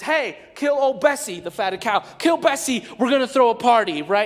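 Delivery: loud, high party call; a father shouting for a feast; jubilant father. Acted. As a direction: call the servants to celebrate.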